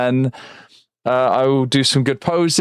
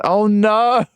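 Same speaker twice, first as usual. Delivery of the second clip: fire alarm voice; 8 semitones higher than usual. Retold or imitated. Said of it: "The fire alarm randomly went".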